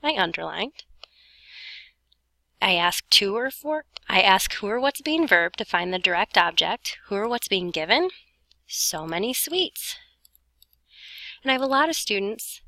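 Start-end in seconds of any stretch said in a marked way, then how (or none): 2.6-12.6 breathing heavily between words; audible heavy breaths while talking. Real, not acted. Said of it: "I'm sorry I'm breathing heavy".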